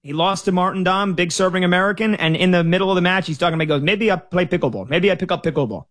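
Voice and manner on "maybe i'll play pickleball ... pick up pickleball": half-hearted Russian accent, mocking a tired pro; bad Russian accent. Tennis pundit quoting Medvedev after losing, in a bad Russian accent. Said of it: "That's my bad im-, imitation of a Russian accent".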